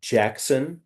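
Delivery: slow over enunciating; "Jackson" ... "Smith" ... "Njigba" pausing between each name; slowly spelled out. Shown as a demonstration. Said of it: "slowly for the listeners".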